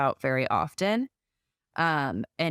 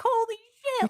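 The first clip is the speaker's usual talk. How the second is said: much higher, the remembered jolt of panic; retold shock. Fellow mom recalling her own scare, shocked. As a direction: blurt it out like the news just landed. Shock at possibly having twins.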